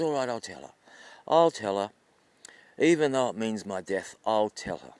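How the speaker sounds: understated, lowish giving in; worn-down resignation. Acted. Old man sick of wife's nagging, resigned. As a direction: give in with mild weariness. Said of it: "he just gets so sick of it".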